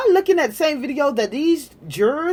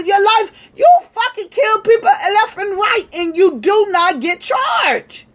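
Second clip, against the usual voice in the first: angry shout; 6 semitones higher than usual. Real, not acted. Ranting at police on camera, shouting in fury. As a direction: shout the accusation right at them.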